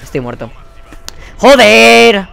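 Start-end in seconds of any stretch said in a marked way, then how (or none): 1.4-2.3 loud, high, drawn-out swearing yell; real gamer rage; frustrated shout. Real, not acted. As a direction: yell the curse in real exasperation. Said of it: "Ya es que paso de gritar".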